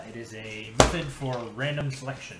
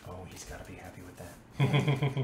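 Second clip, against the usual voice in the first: golf announcer; 4 semitones lower than usual. Acted. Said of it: "You get to do your golf announcer's voice".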